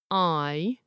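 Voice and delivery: "eye" stretched from "ah" into "ee"; bendy vowel. Shown as a demonstration. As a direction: draw out the glide in "eye". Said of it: "It goes from an ah to an i".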